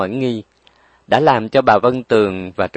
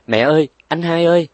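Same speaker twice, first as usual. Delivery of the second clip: calling out loud and high for mother and brother; a sudden desperate cry; 6 semitones higher, 4 dB louder than usual. Acted. Dying woman crying out for her mother and brother, loud. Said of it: "nàng gọi thét lên".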